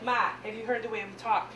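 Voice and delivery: lightly broadened Midwestern vowels; Midwestern accent. Shown as a demonstration. Comic shows her total Midwestern accent. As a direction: say it with a Midwestern twang. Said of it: "total Midwestern accent".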